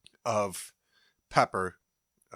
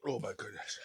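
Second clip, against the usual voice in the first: pained murmur; 8 dB quieter than usual. Real, not acted. Burning mouth pain.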